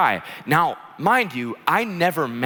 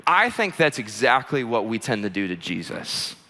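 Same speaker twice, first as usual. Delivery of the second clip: deliberate key point; 4 semitones lower than usual. Real, not acted. Preacher slows down for key point.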